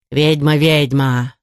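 slow, insistent house-spirit taunt; arguing house spirit. A narrator's reading. House spirit contradicting the artefactor, slow insistence. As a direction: keep needling, drawing the words out. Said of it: "продолжил спорить домовой".

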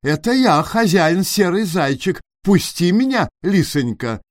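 a touch of the timid hare asking the fox; pleading hare. A narrator's reading. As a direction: beg politely to be let in.

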